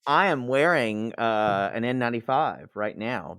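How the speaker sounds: muffled behind a face mask; through an n95 mask. Real, not acted. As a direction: talk through a snug N95. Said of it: "Poodle's wearing one right now".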